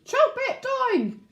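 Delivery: slow, high, bellowed order; bellowing mayor. Acted. The mayor ordering the weed destroyed, slow high bellow. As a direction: roar the command at the guards. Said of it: "and now he bellowed".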